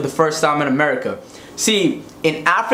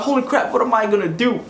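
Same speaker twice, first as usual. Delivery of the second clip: higher panicked outburst; freaking out; 6 semitones higher, faster than usual. Retold or imitated. Realizing he forgot the cup, higher panic. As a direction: panic at the sink, voice up. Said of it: "I started freaking out".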